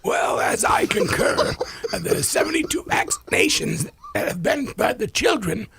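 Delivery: put-on rising, wavering old-time voice; witchy Katharine Hepburn touch. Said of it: "would you please say the same sentence in your current form".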